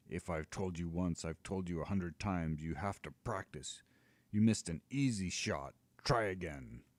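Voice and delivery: a lightly voiced giant nagging his dragon; a hint of an impatient giant; scolding giant. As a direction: lecture the dragon like a tired giant.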